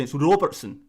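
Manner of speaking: put-on Scottish pronunciation of ROBERTSON; Scottish accent. YouTuber playing a Scot correcting the English name, Scottish accent. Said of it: "trying to do a Scottish accent".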